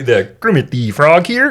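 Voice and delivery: lightly voiced Kermit, slowed down; a hint of the frog puppet; mild Muppet frog impression. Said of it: "do some Muppets".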